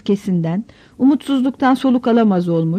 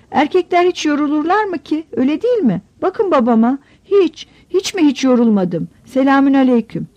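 put-on a higher child's voice, muttering proudly; little boy boasting to himself; 5 semitones higher than usual. Young son talking to himself in bed, mildly proud child's voice. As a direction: keep bragging like a stubborn small boy.

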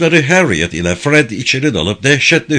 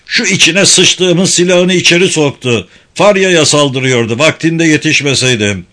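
high, loud tirade; angry shouting; 5 semitones higher, 4 dB louder than usual. Acted. Alvar berating Fred over the stabbing, loud angry tirade. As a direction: keep yelling, pointing out the knife. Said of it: "diye bağırdı Alvar".

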